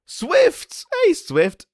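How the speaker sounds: loud, high shout across the room; calling out. Real, not acted. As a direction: hail him from afar.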